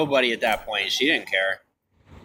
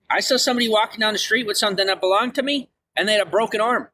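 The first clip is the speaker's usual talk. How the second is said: much higher, feigned innocence; mock veiled threat; 7 semitones higher than usual. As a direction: play innocent while hinting at a threat, pitch climbing high. Joking threat about stolen backpack.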